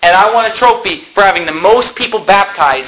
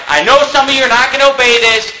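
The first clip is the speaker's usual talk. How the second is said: mock-annoyed, higher-pitched scolding; mildly mad; 5 semitones higher than usual. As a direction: imitate a leader getting a bit cross. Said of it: "they'd even get mad".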